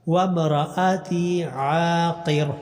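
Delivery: slow drawn-out tajweed chant; slow tarteel recitation; Quran recitation. Shown as a demonstration. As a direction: recite each vowel long and measured. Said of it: "عین کو لمبا کرنا".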